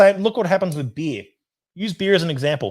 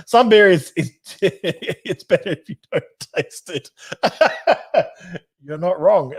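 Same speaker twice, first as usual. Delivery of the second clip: laughing; 5 semitones higher, slower than usual. Real, not acted. Host joking to viewers that bad beer tastes better cold, laughing. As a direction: talk through a real fit of laughter.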